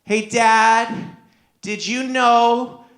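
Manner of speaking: slow, halting hint of a child informing Dad; drawn-out words, a touch of little girl; lightly voiced daughter. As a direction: lightly imitate a kid sharing a discovery. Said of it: "And then she said to me".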